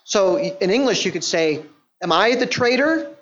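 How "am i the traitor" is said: expecting yes. Shown as a demonstration. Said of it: "expecting a yes answer".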